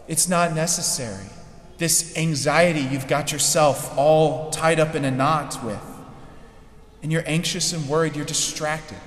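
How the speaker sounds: lightly softened, tender reassurance; gentle. Retold or imitated. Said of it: "the gentleness in the voice of Jesus".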